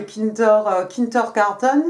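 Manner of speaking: kindergarten said with a German accent. Shown as a demonstration. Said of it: "mon accent allemand". (mot kindergarten prononcé avec un accent allemand, un peu lentement)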